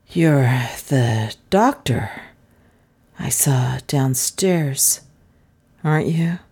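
slow, halting, guileless question; innocent. A narrator's reading. Dazed stranger mistakes the detective for a doctor, innocently. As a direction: ask it vacantly, feeling for each phrase. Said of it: "he said innocently".

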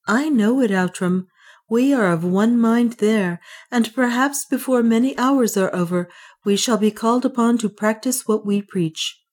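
a calm, resigned friend; Francisco. Acted. Francisco to Leonard, resigned but calm about death. Francisco again, voiced higher.

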